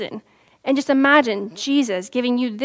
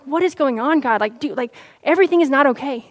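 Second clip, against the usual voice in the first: exasperated outcry. Retold or imitated. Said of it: "threw up my arms".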